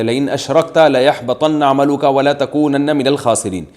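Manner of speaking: measured chanted recitation of the verse; Quran recitation. Shown as a demonstration. Mufti quoting the correct verse to questioners, recited. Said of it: "اللہ تعالیٰ کا ارشاد ہے".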